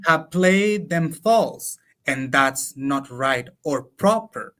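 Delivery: slow, measured recital of the English lines; slow verse reading. Acted. To a colleague, reciting translated Lope verse slowly. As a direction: savour each line of the sonnet, slowly.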